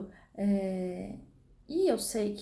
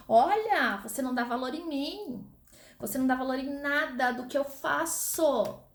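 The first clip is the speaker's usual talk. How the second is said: scolding mother; 3 semitones higher than usual. Acted. Teacher imitating a mother scolding her ungrateful children, mock scolding. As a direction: play the fed-up mother lecturing her kids. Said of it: "É frase clássica de mãe".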